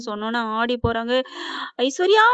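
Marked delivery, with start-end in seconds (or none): 1.8-2.2 high, rising call of the name; retold cry of distress, last vowel drawn up; anguished cry. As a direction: cry out in mild mock anguish. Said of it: "அப்படின்னு துடிக்க".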